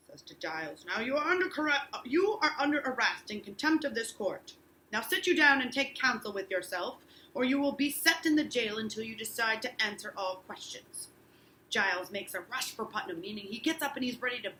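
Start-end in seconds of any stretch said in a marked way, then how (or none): 0.9-11.1 a touch of an official judge voice, a little louder; ordering him under arrest, firmly; stern judge. Acted. Teacher reads Danforth arresting Giles.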